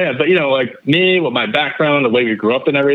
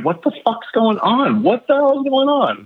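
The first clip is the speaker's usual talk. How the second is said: imitated bewilderment; 10 semitones higher than usual. Imitating colleagues watching him get jumped, bewildered. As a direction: act out stunned onlookers, pitched way up.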